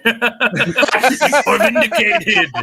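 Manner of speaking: slow booming toy villain, laughing; drawn-out Kang figure proclamation; gruff tinny action figure. Pretend. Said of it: "I have Kang the Conqueror here, uh, in action figure form to say".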